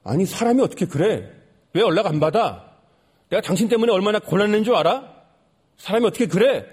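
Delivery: mildly acted angry complaint; retold anger. Homeless man confronts the narrator on the street, mild retold anger. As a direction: imitate someone telling you off, without shouting. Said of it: "저한테 막 화를 내는 겁니다".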